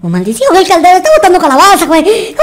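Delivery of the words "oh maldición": ordinary delivery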